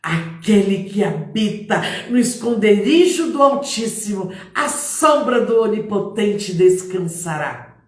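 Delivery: steady proclaiming voice; confident recitation. Shown as a demonstration. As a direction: declaim the verse with assurance. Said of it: "Fale um versículo".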